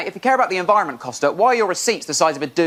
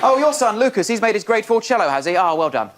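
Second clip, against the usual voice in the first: smug playground parent. Retold or imitated. Smug parent voiced in routine.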